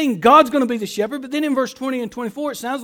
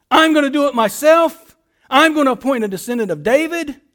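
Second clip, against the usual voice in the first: emphatic declaration; 3 semitones higher, 5 dB louder than usual. Acted. Voicing God's promise emphatically.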